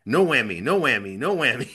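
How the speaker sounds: game show host voice. Acted. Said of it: "I do have one of those game show".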